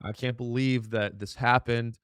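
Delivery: lightly hammed-up frightened pleading; a hint of a sobbing evacuee; mock scared fire victim. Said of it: "People are like".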